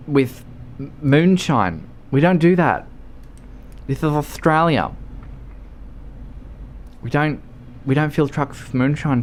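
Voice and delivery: lightly voiced hesitant clerk; baffled attendant. Attendant refuses to fill truck with moonshine, hesitant clerk voice.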